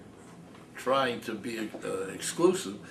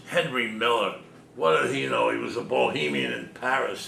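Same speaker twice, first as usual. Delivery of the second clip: put-on old geezer; 5 dB louder than usual. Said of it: "old geezer".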